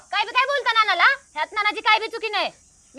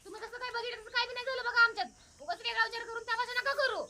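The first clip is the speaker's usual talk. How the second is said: softer, hushed reassurance; quiet plea; 10 dB quieter than usual. Acted. Wife hushes her husband, quiet and pleading.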